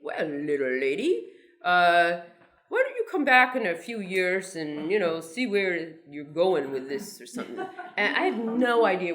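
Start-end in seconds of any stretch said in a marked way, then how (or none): 0.0-7.2 mild mock Western cowboy accent. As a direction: play the editor as a folksy Western cowboy, lightly done. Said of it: "Western cowboy accent".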